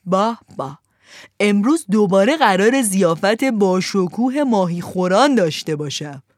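gleeful fisherman, loud and hearty; joyful cry. Acted. Fisherman crowing over his full net, gleeful and loud. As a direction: crow with delight over the catch. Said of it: "از خوشحالی فریاد زد".

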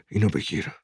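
soft, hushed murmur; muttered under breath. A narrator's reading. Parent handing the pistol to child, muttered. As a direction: say it low and secretive. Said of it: "زیر لب گفت".

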